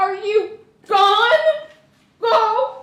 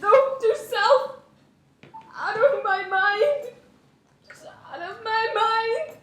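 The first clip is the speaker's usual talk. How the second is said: crying; 4 semitones higher than usual. Acted. She breaks down.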